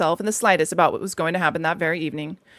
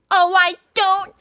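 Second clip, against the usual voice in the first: high, slow affronted voice; indignant washerwoman; 11 semitones higher, 4 dB louder, slower than usual. A narrator's reading. Mole challenging the sergeant, indignant. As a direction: retort in mock affront.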